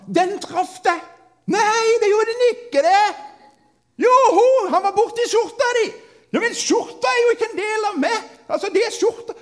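put-on high, loud squabbling kids' voices; playground quarrel. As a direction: yell back and forth like kids sure they're right. Kids arguing over dodgeball hit.

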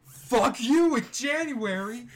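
slow high shouted slogan; shouted catchphrase. Acted. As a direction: bellow the catchphrase.

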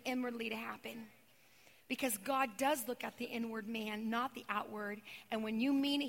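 tender preaching. Acted. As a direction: comfort them gently, almost hushed. Intimate soft preaching.

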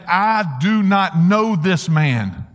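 slow, emphatic denial without a real scream; mock amped-up oath. Peter denying Jesus to servant girl, mock vehement. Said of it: "screaming and swearing an oath".

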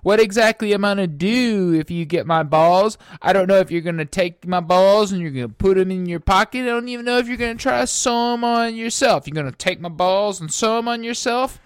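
high, loud demon mimicry; mocking demon voice. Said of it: "They're all like".

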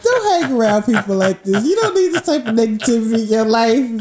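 put-on British accent. Shown as a demonstration. Host advising listeners to be proud, in a put-on British accent. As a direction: lecture in a mock British accent. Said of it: "Let me hear your British".

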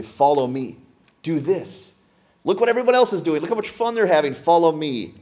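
high, coaxing voice of temptation; tempting voice. Acted. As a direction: lure them like the world calling. Worldly temptation voiced enticing.

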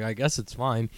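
low, soft giving-in; resigned concession. Acted. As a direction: drop it low and quiet, conceding. Giving in after squeaky insistence.

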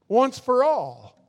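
"Once for all" stressed and strong; emphatic. Shown as a demonstration. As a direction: drive home "Once for all" slowly.

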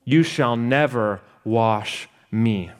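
slow, emphatic refusal, a touch indignant; drawn-out protest, half acted; slow indignant refusal, lightly voiced; Peter exclaiming. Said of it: "Peter exclaims".

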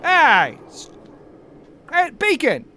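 put-on high, indignant old man ranting; fired-up old knight. Old knight Cecil fumes to coworkers about the stolen cake, high and indignant. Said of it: "so he says".

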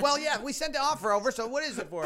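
overheard dealmaker. Retold or imitated. Mimics dealmakers overheard through the door.

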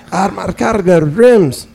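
put-on repeating the greeting in an Armenian accent. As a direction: repeat it slowly in the same thick Armenian accent. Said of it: "he immediately went into an urban accent".

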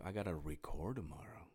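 soft, barely voiced mutter; mumbled aside. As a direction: say it half under your breath. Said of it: "I said".

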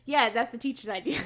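giggling through the words; laughing. Real, not acted. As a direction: laugh while you say it. Laughing at the plot.

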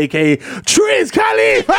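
slow shouted alias; hype shout. Acted. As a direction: announce it like a hype man.

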